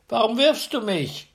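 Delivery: woken by a stone, outraged; indignant giant cry. A narrator's reading. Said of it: "rief der andere".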